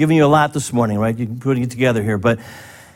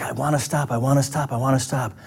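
pleading; 6 dB quieter than usual. Retold or imitated. Voicing someone fighting a habit.

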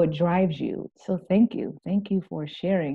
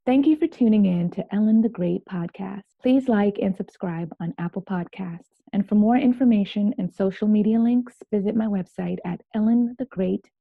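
upbeat host sign-off read; podcast outro; 3 semitones higher than usual. Acted.

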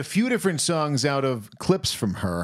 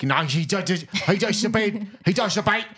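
Cockney impression; 5 semitones higher than usual. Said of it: "played by Dick Van Dyke".

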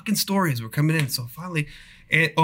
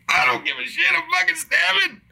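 much higher, panicky burst; frantic. Retold or imitated. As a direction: squeak it out like you're ready to stab. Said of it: "I'm like".

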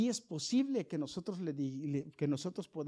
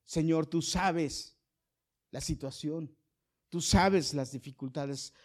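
retold prayer; slower than usual. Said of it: "le estuvimos pidiendo a Dios".

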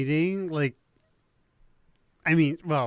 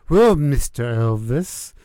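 baby voice impression; 3 dB louder than usual. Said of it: "doing terrible impressions".

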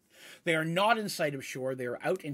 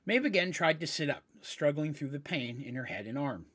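story narration. Acted. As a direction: read it like a novel, pausing for effect.

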